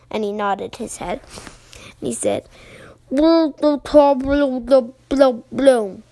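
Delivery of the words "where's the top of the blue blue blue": bubbly frog voice. Acted. Froggy asks underwater.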